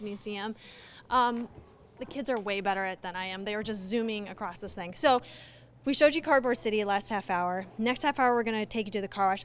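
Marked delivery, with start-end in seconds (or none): 2.0-9.4 panting between words, out of breath; breathless after a climb. Real, not acted. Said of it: "I'm out of breath".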